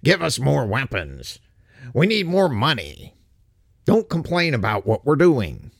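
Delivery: sarcastic, nagging whine; whining. Retold or imitated. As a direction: whine the demands like a spoiled child. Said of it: "one thing Ukraine does really well is whine".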